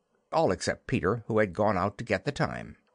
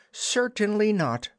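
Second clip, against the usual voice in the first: scandalized refusal; 11 semitones higher than usual. Acted. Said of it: "Wendy was scandalized".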